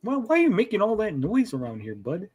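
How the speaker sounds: a hint of friendly cartoon Canadian; mock Canadian accent. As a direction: complain mildly in a put-on Canadian lilt. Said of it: "friendly Canadians here".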